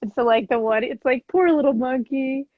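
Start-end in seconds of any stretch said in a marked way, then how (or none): 1.3-2.5 storybook voice, slightly raised; acted story reading. Shown as a demonstration. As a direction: read it like a sympathetic children's story. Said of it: "I'll, like, act it".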